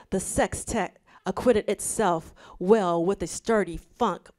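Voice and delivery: measured, careful article read-aloud; composed reading-aloud voice. Real, not acted. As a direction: read it out evenly and deliberately. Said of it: "transition to my reading voice".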